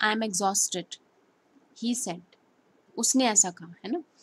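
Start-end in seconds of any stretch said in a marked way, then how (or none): 0.0-2.2 brief, short pause after the word "exhausted". Showing how to speak a sentence with quotation marks: short pause after exhausted. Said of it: "इसे बोलने में भी हम ऐसे बोलेंगे ... तो थोड़ा सा आपने पॉज लिया यहाँ पे".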